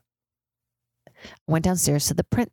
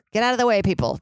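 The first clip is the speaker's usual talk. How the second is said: mock call out; 6 semitones higher, faster than usual. Calling to people below sirens.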